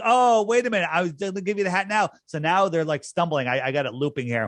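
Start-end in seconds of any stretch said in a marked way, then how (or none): 0.0-2.1 mock surprise. Guy who botched the hat handoff, mock surprised realization. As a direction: ham up a guy catching his own mistake. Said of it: "he's like".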